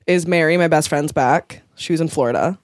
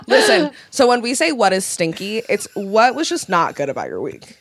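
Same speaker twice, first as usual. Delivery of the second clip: laughing; 5 semitones higher, 4 dB louder than usual. Real, not acted. Explaining for Belgian listeners, laughing.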